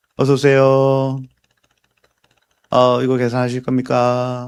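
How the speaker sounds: flat, dead-level, emotionless bored worker voice. Imitating a Paris Baguette part-timer's greeting: imitating a flat, emotionless greeting. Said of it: "아르바이트 특유의 그 말투가 있잖아요 ... 감정이 하나도 느껴지지 않아요".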